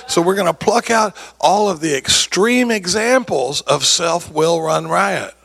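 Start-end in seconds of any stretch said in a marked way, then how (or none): 3.6-5.3 self-will run riot spelled out slowly, riot punched; slow weighty key phrase; slow stress on riot. Shown as a demonstration. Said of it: "emphasizing the key phrase".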